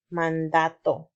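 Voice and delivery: mandato said carefully and clearly; careful model word. Shown as a demonstration. Teacher models mandato for children to repeat, careful and clear. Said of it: "repite conmigo".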